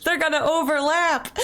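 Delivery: laughing through the words. Real, not acted. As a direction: say it while still laughing. Laughing at chat redeems.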